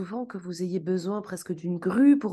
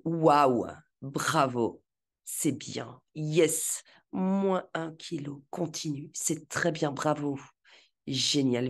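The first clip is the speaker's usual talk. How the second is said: self-cheering; 4 semitones lower than usual. Pretend. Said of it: "et dites-vous".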